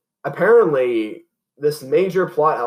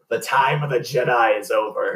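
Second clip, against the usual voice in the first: Palpatine voice; 3 semitones lower than usual. Pretend. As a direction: intone it like a dark emperor. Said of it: "it's like".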